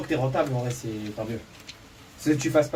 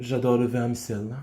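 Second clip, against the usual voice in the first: French accent; 5 semitones lower than usual. Shown as a demonstration. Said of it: "dis-le avec l'accent français".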